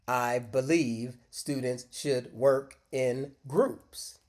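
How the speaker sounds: "I believe students should work in groups" said slowly and evenly, every word the same; robotic. Shown as a demonstration. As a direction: speak it like a robot, no stress. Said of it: "let's say it robotically to contrast".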